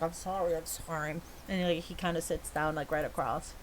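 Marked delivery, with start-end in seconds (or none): 0.0-1.2 much softer, sheepish "I'm sorry"; quietly sheepish apology; meek apology. Acted. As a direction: mumble the apology under your breath. Bruce apologises meekly.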